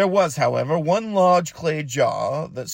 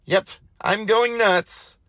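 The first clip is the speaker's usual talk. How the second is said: muttering to himself; 6 semitones higher, slower than usual. Acted. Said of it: "he said to himself".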